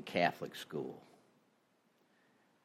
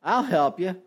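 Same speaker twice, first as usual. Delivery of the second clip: higher, louder voice from the heavens; voice from above; 10 semitones higher, 4 dB louder than usual. Acted. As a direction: answer from the sky like a mock god. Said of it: "the voice comes down from above and says".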